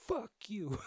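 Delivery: high mock yell at the car behind; retold curse at driver. Man cursing the honking driver behind him, mock angry. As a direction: fling it back in mock anger. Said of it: "I'm mad".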